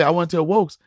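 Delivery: "Wokes" with a W sound where the J of jokes should be; child mispronouncing jokes. Retold or imitated. Son telling his dad he wants to tell jokes, saying "Wokes". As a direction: say "Wokes" like a toddler who can't say jokes. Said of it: "he can't say joke".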